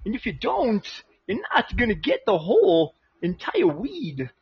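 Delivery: lightly voiced halting Walken; Christopher Walken impression. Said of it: "Christopher Walken as an Amish guy".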